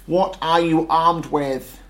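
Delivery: battle tank bellowing in disbelief; roaring disbelief. A narrator's reading. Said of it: "roared the tank in disbelief".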